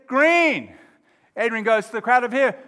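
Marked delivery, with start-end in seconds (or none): 0.1-0.7 high, loud, drawn-out chant; crowd's shout. Acted. Crowd backing their man, loud shout. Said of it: "And they say".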